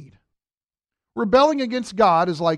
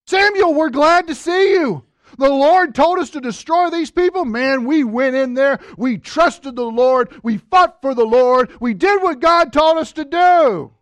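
higher, louder eager excuse-making; mock Saul; 4 semitones higher, 5 dB louder than usual. Saul bragging to Samuel, higher and louder mock eagerness. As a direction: gush like a caught kid. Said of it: "look what he says".

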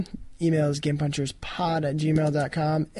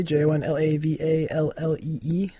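letter by letter; spelling it out; 3 dB quieter than usual. Shown as a demonstration. Spelling out Twitter handle.

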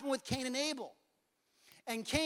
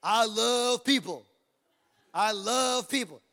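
drawn-out, emphatic declaration; slow, deliberate repeated affirmation; 4 dB louder, slower than usual. Shown as a demonstration. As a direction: stretch the words out for the crowd. Resumes leading the affirmation.

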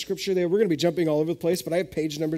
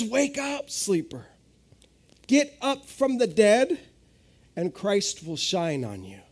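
preached scripture quote; 3 semitones higher, slower than usual. Acted. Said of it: "he says".

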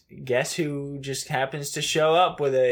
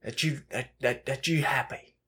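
Michael Caine. Retold or imitated. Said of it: "I gave you the Michael Caine impression".

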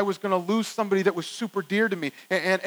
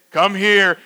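mock-stern, loud summons; stern parent; 7 dB louder than usual. Parent to a child who was told on, loud summons. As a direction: call the child over firmly and loudly. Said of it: "I turn to that child and I say".

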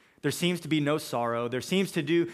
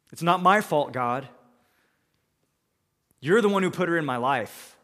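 defensive protest; 2 semitones higher, 6 dB louder than usual. Acted. Adam voiced blaming God.

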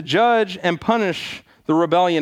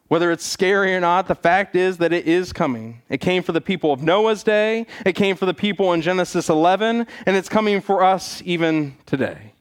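doomsday street preacher. Acted. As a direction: preach the doom steadily. Preaching on coming judgment.

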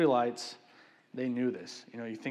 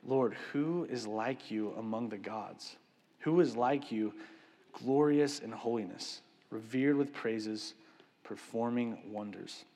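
slow, reverent reading of the verse; scripture reading. Shown as a demonstration. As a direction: read it slowly, with reverence. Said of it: "it says".

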